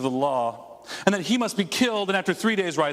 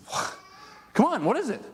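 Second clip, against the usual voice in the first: exasperated demand, higher pitch; mock-angry, high-pitched challenge; acting angry; 7 semitones higher than usual. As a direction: act out a temper starting to fray. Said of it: "he started to get angry".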